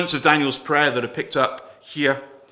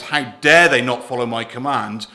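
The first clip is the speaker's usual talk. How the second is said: mock outrage; 6 dB louder than usual. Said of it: "Nebuchadnezzar's attitude was".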